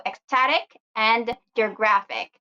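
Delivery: "ecstatic and geographic" with STA and GRA stressed; stress on second-to-last syllable. Shown as a demonstration. Teacher repeats the examples for learners, stressed STA and GRA in "ecstatic and geographic". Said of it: "the second to the last".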